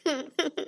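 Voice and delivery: short high-pitched sobbing; a wordless burst of crying; sob. Acted. Sister alone grieving her dead brother, sobbing. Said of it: "مالك يا سماح بتعيطي ليه".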